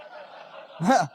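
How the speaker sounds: short burst of high laughter; real laugh. Real, not acted. Telling crowd about biting therapist, laughing.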